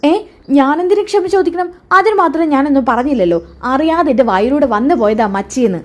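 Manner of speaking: high, scoffing disbelief; indignant protest. Acted. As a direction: toss it back, offended she's asked. Mother-in-law refuses to apologise. (അതിശയത്തോടെ നിഷേധിക്കുന്ന ശബ്ദം)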